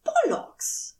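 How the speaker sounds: high, sharp snarl; snarled curse. A narrator's reading. Aziraphale snarls at Crowley in anger. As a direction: spit the curse at him. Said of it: "Aziraphale snarled at him".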